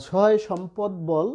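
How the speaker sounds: slow verse line, বল ending on l; closed final consonant. Shown as a demonstration. Teacher quoting a poem as example, slow, বল closed on l. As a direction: recite slowly with বল as one syllable. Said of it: "বলছি বল".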